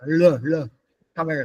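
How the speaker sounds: L sounded with a d combined into it; retroflex l. Shown as a demonstration. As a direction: isolate the curled-tongue L, then put it in Tamil. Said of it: "d gets combined here".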